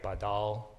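"badal" with the accent on its last syllable; stress on second syllable. Shown as a demonstration. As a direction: say "badal" leaning on "dal". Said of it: "accent goes on the second syllable".

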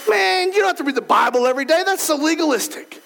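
mildly mocking voice of temptation; tempting inner voice. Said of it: "in my head says".

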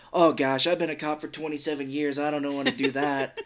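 lightly imitated Fargo Minnesota accent; reluctant cop with a hint of Minnesota; Fargo-style William H. Macy voice. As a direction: slip into a mild Fargo accent. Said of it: "I'm doing that voice".

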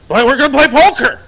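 put-on the stubborn drunk buddy; drunk insistence. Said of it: "He's like".

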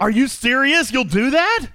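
high, loud gasping disbelief; gasp, then ask in mock shock; surprised. Co-host agrees to write.

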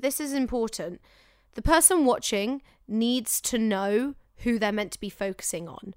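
measured, deliberate key point; slowed for importance. Shown as a demonstration. Telling actors the important thing about showreels, slowed and deliberate. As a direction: spell it out unhurriedly for the listener. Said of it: "I'm gonna slow down a bit".

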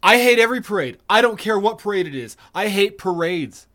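loud, emphatic griping; exasperated rant. Real, not acted. Party pooper railing against parades, exasperated. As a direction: rant with heavy stress on each complaint.

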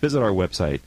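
lively announcer credit read; radio sign-off. Real, not acted. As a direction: read the show credits with bouncing pitch. Reads sponsor credits and sign-off.

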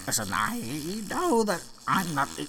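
very soft, faint last words; weak dying voice. Acted. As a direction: fade out like a dying king.

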